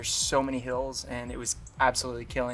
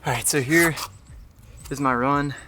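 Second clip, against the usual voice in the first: out of breath; 6 dB louder than usual. Real, not acted.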